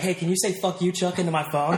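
lightly voiced drunk asking strangers; drunk request. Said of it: "he's like".

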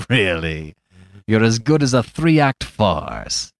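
loud, slow gleeful crow; delighted yell. Acted. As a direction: shout with delight at the joke. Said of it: "Flambeau yelled with delight".

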